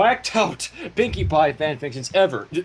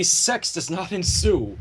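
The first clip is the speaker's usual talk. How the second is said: slow clear repeat; slower than usual. Shown as a demonstration. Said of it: "What's that last part?".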